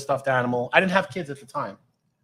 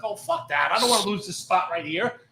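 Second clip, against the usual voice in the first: mocking the lazy partner; 9 semitones higher, 5 dB louder than usual. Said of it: "My partner's like".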